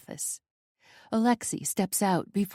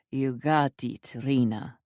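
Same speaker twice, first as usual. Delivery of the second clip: lower, slow friendly male voice; smile in his voice; 5 semitones lower, slower than usual. Acted. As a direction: say it with a smile, unhurried. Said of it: "he says with a smile in his voice".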